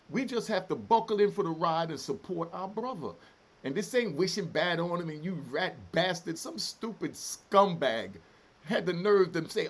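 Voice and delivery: loud, indignant tirade; emotional rant. Real, not acted. Ex-prisoner scolding viewers who judge his brother, emotional and angry. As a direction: lash out loudly in real outrage. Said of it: "getting so, you know, emotional".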